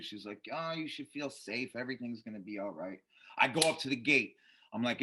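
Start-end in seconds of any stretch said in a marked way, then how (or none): 0.5-3.0 soft, low, soothing mom voice; calm him down softly, lightly imitating mom; lightly voiced comforting mother; reassuring mother. Mother reassures her worried son.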